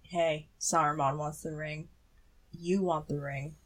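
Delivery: coaxing negotiator. Acted. Sauron talking Denethor round over the ring, casually coaxing. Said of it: "he's just like".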